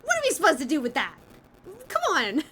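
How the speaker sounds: quick, high mock protest; fast exasperated imitation. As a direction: rattle it off like her outburst. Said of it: "I love that Celeste is just like".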